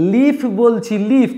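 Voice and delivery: লিফ with a long "ee". Shown as a demonstration. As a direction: hold the vowel of লিফ as "ee". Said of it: "অর্থাৎ long এর মতো উচ্চারণ হবে".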